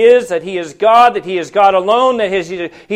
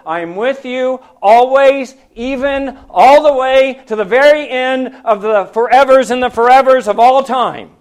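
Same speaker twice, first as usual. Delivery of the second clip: firm and louder, "always" ringing out; true quote; 5 semitones higher, 5 dB louder than usual. Acted. Preacher giving the church the real promise, firm and loud. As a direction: declare it with full conviction. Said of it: "What did he say?".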